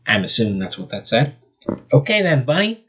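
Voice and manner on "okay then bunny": winking hero. Acted.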